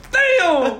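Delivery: sharp high loud cry of pain; imitated shout. Foot cramping without warning, a high loud mock shout. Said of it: "they're like".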